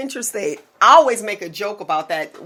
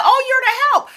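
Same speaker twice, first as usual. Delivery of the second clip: put-on old lady's voice; 4 dB louder than usual. Retelling the patient's line, in a high old-lady voice. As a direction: mimic a ninety-year-old patient sweetly. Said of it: "And she said".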